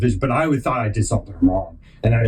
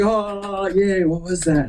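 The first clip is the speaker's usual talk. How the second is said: imitated cooing mom; 7 semitones higher, slower than usual. Mom reacting to her kid's recital, imitated high cooing. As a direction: play a mom gushing though baffled. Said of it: "moms are like that".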